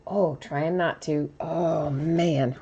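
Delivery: holding back a sneeze; strained, fighting off a sneeze; about to sneeze. Real, not acted. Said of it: "I'm about to sneeze".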